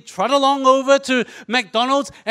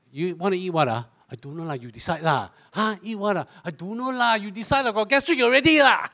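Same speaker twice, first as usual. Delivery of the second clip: bored couple bickering; 3 semitones lower, 4 dB quieter than usual. Acted. Bored couple's real-life dinner squabble.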